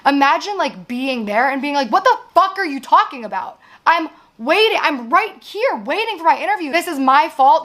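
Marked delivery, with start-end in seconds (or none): 1.9-7.6 raised, exasperated pitch, mostly higher; upset outburst. Retold or imitated. To the production team, re-enacting her upset protest. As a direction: replay the frustration, pitch climbing. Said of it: "This is how I act when I'm upset".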